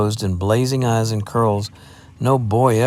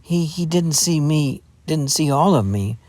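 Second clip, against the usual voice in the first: higher, hammed-up tragic lament; mock despair, stammering; 6 semitones higher than usual. Jeannie lamenting to Adam about the lad, tragic. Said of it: "replied Jeannie tragically".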